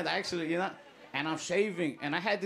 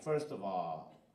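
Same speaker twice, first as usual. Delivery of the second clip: lower, softer boastful Trump impression; 9 semitones lower, 9 dB quieter than usual. Trump bragging at the debate, low boastful impression. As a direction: brag like a lightly voiced Trump. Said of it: "when Trump was like".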